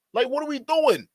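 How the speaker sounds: incredulous. Real, not acted. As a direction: ask "doing" like it's absurd. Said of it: "same phrase louder, higher".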